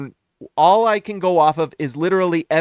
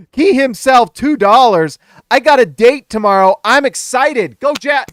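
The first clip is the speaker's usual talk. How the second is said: excited; 7 semitones higher, 10 dB louder than usual. Real, not acted. Reading a donation shout-out.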